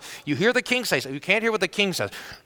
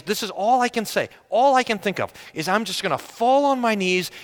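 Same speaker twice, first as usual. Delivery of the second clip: anxious pleading; 4 semitones higher than usual. Acted. Debtor plans to beg mercy.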